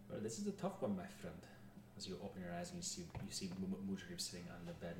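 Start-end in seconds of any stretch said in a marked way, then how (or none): 0.1-1.4 put-on lightly French-accented spirit guide; French-accented character voice. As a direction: give the advisor a touch of French accent. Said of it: "I was doing a French accent".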